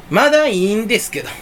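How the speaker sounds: lightly mimicked Kansai comedian's intonation; Matsumoto. Vlogger slipping into a comedian's phrasing, light Kansai imitation. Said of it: "松本さんみたいな言い方".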